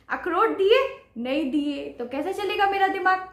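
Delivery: lightly voiced Rakhi whining, rising. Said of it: "तो राखी कह रही है".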